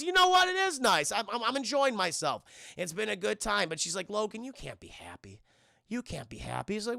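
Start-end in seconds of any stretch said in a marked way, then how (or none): 0.0-3.7 mock enthusiasm. Voicing Logan warming to the moment. 4.1-6.7 low, soft imitated warning; quiet ominous warning. Voicing a haunting vision's warning.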